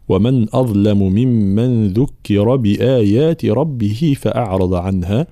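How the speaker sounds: measured, careful verse reading; Quran recitation. Shown as a demonstration. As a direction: recite the verse slowly and clearly. Teacher recites the verse being taught. (تلاوة قرآنية متأنية)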